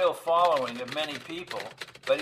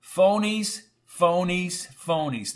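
scornful dismissal; 4 semitones higher, much slower than usual. Acted. Reporter dismissing alien witnesses.

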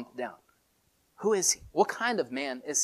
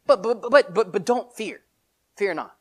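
Jesus reassuring; 4 semitones higher, 3 dB louder than usual. Acted. Jesus voiced reassuring disciples.

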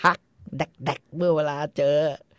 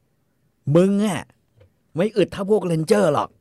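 mock boast; 5 semitones higher, 4 dB louder, much slower than usual. LaBoeuf boasting at Mattie.

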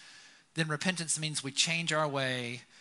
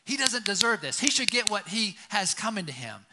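louder, higher resentful outburst; mock resentful brother; 6 semitones higher, 7 dB louder than usual. Older brother resents the prodigal, loud mock anger. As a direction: spit out the grudge, louder. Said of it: "he gets mad".

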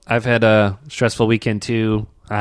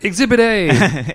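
angry dad voice; 5 semitones higher, slower than usual. Retold or imitated. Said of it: "He's like".

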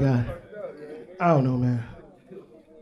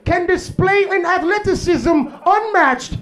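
stuffy white narrator studying wildlife; white documentary narrator; 2 semitones higher than usual. Retold or imitated. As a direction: narrate like a nature show host. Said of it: "The white guy be like".

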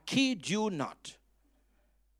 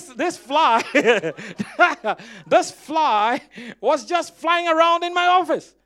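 laughing; 10 semitones higher, 12 dB louder, slower than usual. Real, not acted. Laughing at calling fly devil.

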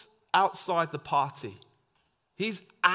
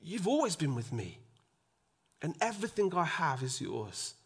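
softer, gentle father pleading; tender father; 6 dB quieter than usual. Retold or imitated. Father gently pleading with his angry elder son. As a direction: coax a hurt son gently. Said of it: "the father says".

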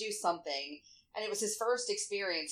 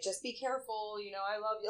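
worried mom; 5 dB quieter than usual. Retold or imitated. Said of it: "being a total freaking drag of a mom".

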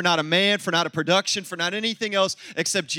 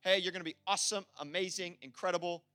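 quick, quieter, throwaway string of compliments; mock hype; 5 semitones lower, 10 dB quieter than usual. Pastor mocking shallow praise for baby John, quick mock hype. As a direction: rattle off empty praise mockingly. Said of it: "That's not like a".

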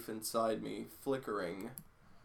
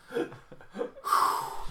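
breathy recovery sigh. Real, not acted. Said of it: "Let me compose myself".

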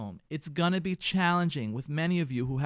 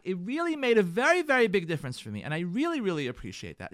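grateful praise. Shown as a demonstration. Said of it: "put him on the pedestal and say to him".

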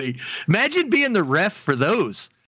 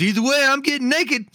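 higher, laughing through the line; laughing punchline; 8 semitones higher than usual. Retold or imitated. Meme guy announcing he'll strip, laughing. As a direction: crack up delivering it. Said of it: "He goes".

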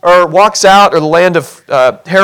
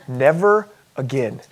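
mock vow; 5 semitones lower, 9 dB quieter, slower than usual. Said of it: "you vow".

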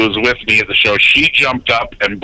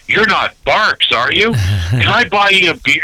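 higher-pitched impression of a starstruck kid; imitated thrilled fan; 5 semitones higher than usual. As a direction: play an awed fan meeting the announcer. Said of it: "he was so thrilled".

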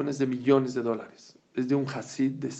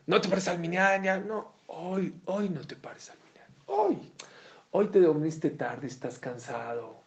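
a higher, sweet-talking little tempter; coaxing tempter voice; 5 semitones higher than usual. Acted. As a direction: coax him gently to skip prayer. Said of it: "no le va a decir".

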